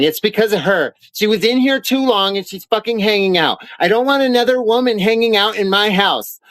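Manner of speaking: lightly voiced jealous girlfriend, sneering; mocking jealous girlfriend. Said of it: "starts having a problem and saying".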